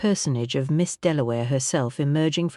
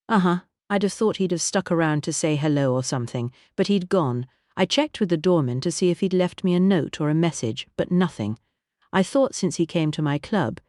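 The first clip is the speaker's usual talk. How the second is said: a warm, grand singer's voice; Vivian voice; 3 semitones higher than usual. Acted. Vivian continues.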